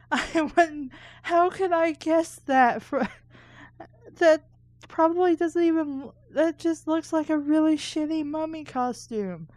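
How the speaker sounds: high, loud mocking disbelief; incredulous aside. Real, not acted. Reader scoffing at the story's silly lettuce costume, high and incredulous.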